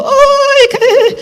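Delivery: high gasp of dismay trailing to breath; shocked. Retold or imitated. Comedian seeing the disappointing salary offer, high shocked gasp. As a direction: squeak out the shock, then fade to a whisper.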